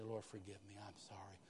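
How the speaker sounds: whispered, soft plea for forgiveness; whispered prayer. Acted. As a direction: pray it in a whisper. Voicing sincere prayer.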